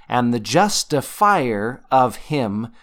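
slow, weighted JUSTIFIER; emphatic scripture reading. Shown as a demonstration. Teacher bringing out Paul's key word, JUSTIFIER stressed. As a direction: hit "justifier" slowly and firmly. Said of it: "emphasize the word I wanna bring out".

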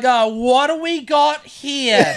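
put-on slow, drawn-out question as an older fireman; lightly voiced seen-it-all fireman; jaded fireman. Older fireman arriving at the crash, slow and unsympathetic. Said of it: "He probably sees this shit all the time".

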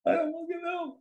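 high, strained cry of frustration, slowing at the start; exasperated angry reply. Retold or imitated. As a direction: blurt it out, helpless and mad at once. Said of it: "Why are you so mad?".

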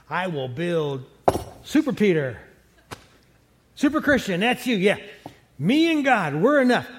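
hammed-up proud believer bragging to the church; mock Super Christian. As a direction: puff up like you need nobody but God. Mocking a self-reliant Christian's boast.

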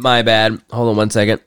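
talking while chewing; words round a mouthful of cookie; mouth full. Real, not acted. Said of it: "I'm eating Nilla wafers".

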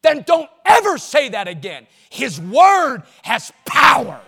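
loud, slow, forceful correction; stern rebuke. Retold or imitated. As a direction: drive the point home. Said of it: "friend's rebuke, retold".

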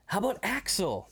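high, stretched rock-singer impression. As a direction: drag it out like a rock frontman. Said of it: "starts doing a rock singer impression".

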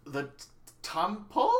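high puzzled "temple?"; bewildered sea captain voice; confused old sailor. Pretend.

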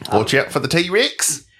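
put-on New Zealand accent. Imitating Sam Neill for his co-host, New Zealand accent. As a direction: warn them in a New Zealand voice. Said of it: "That's definitely New Zealand".

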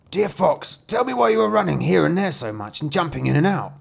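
high-pitched wolf, puzzled; lifted storybook wolf voice; questioning wolf. Acted.

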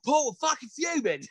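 high, whiny mock-upset voice; mock whiny complaint. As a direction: play it like a child running to the boss. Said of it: "And I went and cried to the boss".

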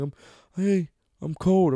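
high, slow mock girlfriend complaint; mimicked girlfriend. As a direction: drag it out, imitating a chilly girlfriend. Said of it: "She's like".

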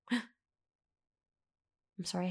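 a breathy staged gasp then sorry; gasping apology. Acted. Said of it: "I keep gasping".

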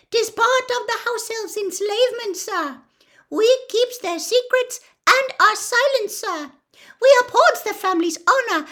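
high squeaky elf, serious; Dobby the earnest house elf. Acted. Dobby explains elf enslavement to Harry, earnest squeak.

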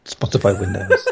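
squeaky high-pitched repeat; high squeaky echo. Pretend. Echoed in high voice.

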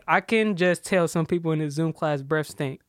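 slow, separated words in "I can just tell". Shown as a demonstration. Repeating the tweet for baffled friends, word by word. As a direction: spell the sentence out slowly, word by word. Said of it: "word by word".

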